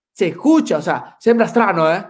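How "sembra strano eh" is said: Italian with imitated Swedish accent, a little higher and louder; put-on Swedish accent, raised pitch; Ibra. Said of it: "si le digo como lo dice Ibra".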